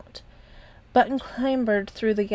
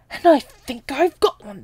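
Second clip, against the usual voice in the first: slow, louder triumphant exclamation; exclaimed; 5 semitones higher, 7 dB louder than usual. A narrator's reading. The captain announcing his plan to Noggin, slow loud exclaim. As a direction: announce the plan with a proud flourish. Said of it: "the captain exclaimed".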